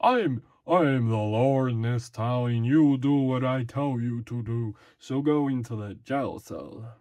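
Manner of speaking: lightly voiced lawman; stock TV character. Shown as a demonstration. TV lawman ordering someone into jail, lightly acted authority. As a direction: lay down the law, mildly hammed-up. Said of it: "a character that speaks like this".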